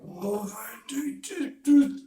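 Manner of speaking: hammed-up high-pitched glee; mock falsetto joy. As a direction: squeal with delight as the lights work. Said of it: "finally he's like".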